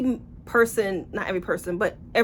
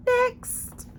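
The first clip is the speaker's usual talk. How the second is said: much higher, bright snap to move on; chirpy dismissal. Real, not acted. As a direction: toss it off high and brisk. Dismissing the book.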